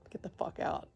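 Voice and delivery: intense whisper, barely voiced. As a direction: hiss it under your breath like a silent order.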